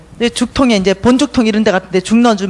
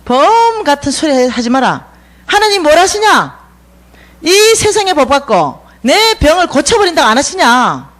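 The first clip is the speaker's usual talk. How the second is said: scolding mother; 4 semitones higher than usual. Retold or imitated. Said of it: "이렇게 말해요".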